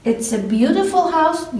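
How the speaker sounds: slow, careful model sentence; slow example reading. Shown as a demonstration. Teacher reviewing the example with students, slowly. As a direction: read it slowly for learners. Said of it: "reviewing examples".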